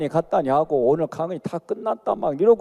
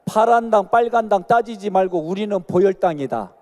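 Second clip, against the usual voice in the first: louder repeat; 2 semitones higher than usual. Shown as a demonstration. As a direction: say it again louder, urging them on. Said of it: "아, 따라해요".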